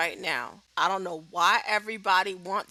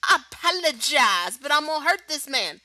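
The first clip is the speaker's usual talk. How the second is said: mock apology; 4 semitones higher, 4 dB louder than usual. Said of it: "looked at the camera and said".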